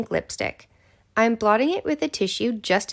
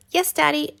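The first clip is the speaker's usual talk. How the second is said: small, higher-pitched squeak; 6 semitones higher than usual. A narrator's reading. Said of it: "I squeak out".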